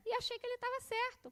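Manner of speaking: ordinary delivery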